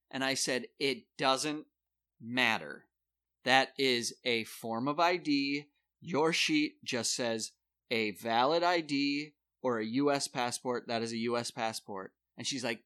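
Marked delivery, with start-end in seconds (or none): 0.8-12.1 slow firm insistence. Retold or imitated. Arguing with poll worker.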